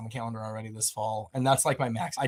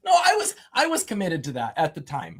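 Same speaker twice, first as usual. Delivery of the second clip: louder, laughing self-defence; laughing protest; 3 semitones higher, 7 dB louder than usual. Real, not acted. Photographer defending himself after "he lied", laughing protest. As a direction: protest loudly through laughter.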